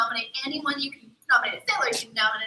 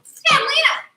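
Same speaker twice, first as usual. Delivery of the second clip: mock mermaid call; 11 semitones higher, 8 dB louder, slower than usual. Shown as a demonstration. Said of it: "you'll be able to say".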